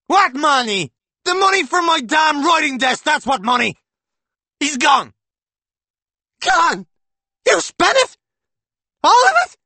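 high, loud furious yelling; shouting quarrel. A narrator's reading. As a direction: yell back and forth. Couple quarrel over money.

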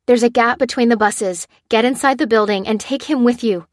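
firm urgent command; ordering. Acted. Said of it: "Lucy ordered".

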